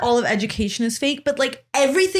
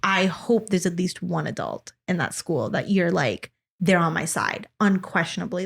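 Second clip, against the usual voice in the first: soft, lower, sincere plea; sincere advice; 4 semitones lower, 4 dB quieter than usual. Retold or imitated. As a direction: say it earnestly, quietly. Earnest advice to sister.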